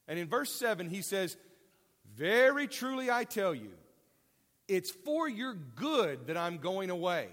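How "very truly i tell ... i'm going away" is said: firmly stressed, solemn declaration; emphatic statement. Retold or imitated. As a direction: lean hard on "Very truly". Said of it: "that's an emphatic statement".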